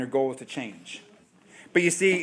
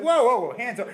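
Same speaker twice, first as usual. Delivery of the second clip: loud, higher whoa; mock alarm; 6 semitones higher, 6 dB louder than usual. Homeowner stopping a guest moving his picture, loud mock alarm. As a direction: stop them, hands up.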